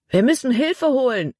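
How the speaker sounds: high-pitched cry of alarm; urgent call. A narrator's reading. Caleb urges the others to get help, calling out. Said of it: "rief Caleb".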